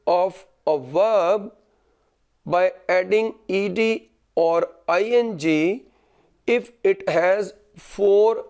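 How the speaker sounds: slow, word-by-word dictation to students; teacher dictating notes, pausing between phrases. Shown as a demonstration. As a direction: spell the rule out slowly so they can write it down.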